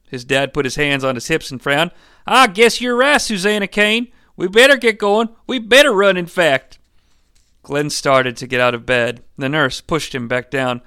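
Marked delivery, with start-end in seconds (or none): 2.3-6.8 high-pitched dad voice; dad figure, conceding. Acted. Dad agreeing with Susanna to get going, high urgency.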